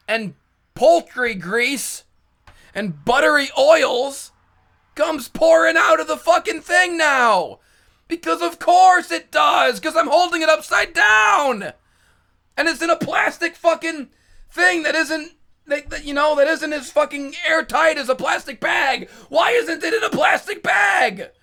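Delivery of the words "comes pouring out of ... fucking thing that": exasperated rant. Real, not acted. Telling about the chicken grease, yelling in exasperation. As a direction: vent at the mess as it pours out. Ranting as grease spills everywhere.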